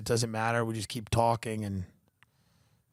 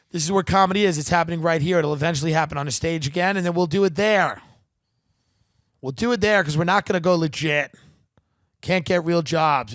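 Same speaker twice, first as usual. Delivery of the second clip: louder, higher comic rant; riled-up rant; 4 semitones higher, 6 dB louder than usual. Real, not acted. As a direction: wind up and preach it.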